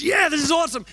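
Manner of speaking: high, loud gleeful shout; excited shout. Retold or imitated. Friend cheering while punching him, high excited shout. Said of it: "Grant goes".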